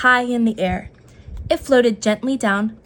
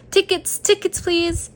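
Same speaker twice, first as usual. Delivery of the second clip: higher rabbit call for tickets; a light higher usher's call; 8 semitones higher than usual. A narrator's reading. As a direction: call it out to the crowd. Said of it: "he called".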